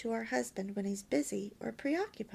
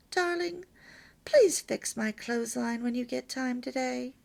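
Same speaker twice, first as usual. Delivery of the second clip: with a smile; 4 dB louder than usual. Shown as a demonstration. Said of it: "Say it with a smile".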